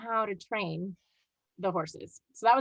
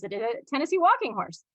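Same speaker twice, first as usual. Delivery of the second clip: lightly imitated Czechoslovakian accent, a little higher; strange Czechoslovakian accent; 4 semitones higher than usual. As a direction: quote him with a hint of a strange Czech accent. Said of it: "in a very strange accent".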